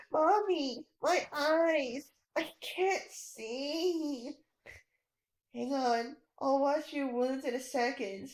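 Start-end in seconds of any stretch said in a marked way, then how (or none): 0.1-4.4 blinded and despairing. Acted. Blinded child cries out.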